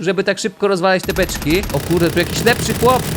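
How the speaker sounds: normal talking voice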